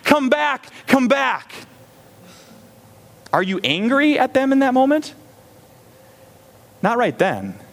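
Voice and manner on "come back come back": frantic yell. Retold or imitated. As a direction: shout to pull a child out of traffic. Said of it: "you're yelling".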